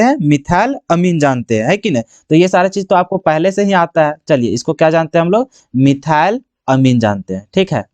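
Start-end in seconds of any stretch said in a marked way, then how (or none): 5.7-7.5 low, drawn-out dictation of the term; slow dictation. Real, not acted. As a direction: stretch it out as you write. Answers own question while writing.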